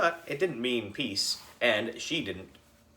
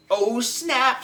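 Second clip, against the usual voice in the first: oh snap; 13 semitones higher, 5 dB louder than usual. A narrator's reading. Ryan reacts to the insult.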